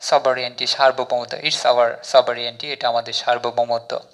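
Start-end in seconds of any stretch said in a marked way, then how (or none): 1.4-2.7 very slow, word by word English; slow example sentence. Shown as a demonstration. Teacher reads example sentence to learners, very slowly. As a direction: spell out each word of the model sentence. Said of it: "sentence তৈরি করলাম".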